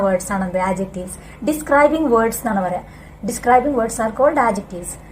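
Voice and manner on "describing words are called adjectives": slow dictation. Shown as a demonstration. Teacher dictates the rule.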